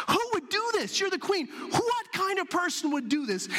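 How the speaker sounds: the king outraged at the threat to his queen. Retold or imitated. King enraged at plot on queen.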